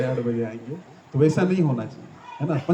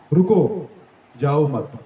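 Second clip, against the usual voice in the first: "रुको" said loud and set apart, then "जाओ मत"; different phrasing; 4 dB louder, much slower than usual. Shown as a demonstration. Speaker showing devotees how phrasing changes meaning, firm break after "रुको". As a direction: stop firmly on "रुको", then add "जाओ मत". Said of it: "मैं अलग तरीके से बोलूँगा".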